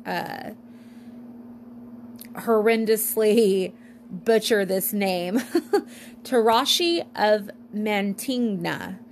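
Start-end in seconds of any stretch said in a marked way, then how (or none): 2.3-9.0 laughing. Real, not acted. Laughs at own mispronunciation.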